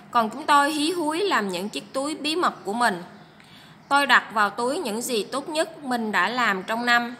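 clear, even read-aloud voice for the class; teacher reading a passage aloud; story reading. A narrator's reading.

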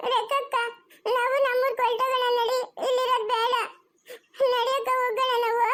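put-on crying child begging to leave; tearful pleading. Child begs big sister to go home, crying. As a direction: plead through tears. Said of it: "ಯಾಕಮ್ಮ ರಕ್ಷಾ ಅಳ್ತಾ ಇರೋದು?".

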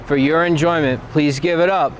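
bright rising showbiz intro; announcer voice. Acted. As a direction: hype up the next act. Announcing the next act.

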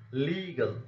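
"legal" with LE drawn out, the ending light; first-syllable stress. Shown as a demonstration. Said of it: "first syllable of such a word will be stressed".

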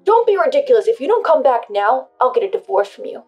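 loud, high furious yell; yelling in rage. Acted. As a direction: shout the threat in rage. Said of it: "enraged, began yelling at me".

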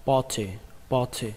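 party with a vowel halfway from A to O; between A and O. Shown as a demonstration. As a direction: round the A in party slightly, keeping the t. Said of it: "Giữa A và O". (đọc party, nguyên âm giữa A và O)

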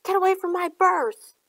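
high, strained bellow; acted shout, pitched well up. A narrator's reading. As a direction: holler it as an angry warning. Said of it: "a voice bellowed".

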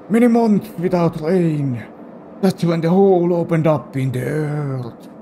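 Grandpa voice. Pretend. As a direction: tell the grim tale as grandpa. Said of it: "given this guy this voice".

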